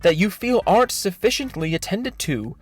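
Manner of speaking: mock-sincere, pompous reading of an apology; dramatic reading. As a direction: read it like a condescending sermon. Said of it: "This is a dramatic reading of his thread".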